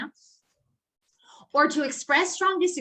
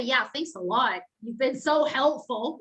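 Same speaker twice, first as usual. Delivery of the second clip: ironic thanks. Retold or imitated.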